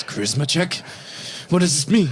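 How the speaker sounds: put-on high, puzzled child voice; puzzled kid. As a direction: ask it like a bewildered little boy. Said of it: "The kid looks you dead in the eyes".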